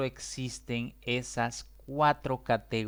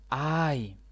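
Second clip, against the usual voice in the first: interjection ay; 3 semitones higher, 3 dB louder than usual. Shown as a demonstration. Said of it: "también usamos".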